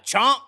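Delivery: sudden loud, high "chomp"; imitated chomp. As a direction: punch it like an impact. Mimics the move on video.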